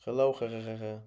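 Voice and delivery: loud silly hehehe greeting; cartoon laugh. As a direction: giggle like a cartoon character.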